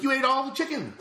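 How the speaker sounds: high, loud mock outrage; shocked outcry. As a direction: imitate friends shrieking in disbelief. Retold shocked outcry over eaten chicken.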